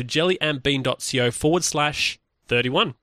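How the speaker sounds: quick, run-together delivery without pauses; really fast. Real, not acted. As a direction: rattle off the web address quickly. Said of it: "I said it really fast".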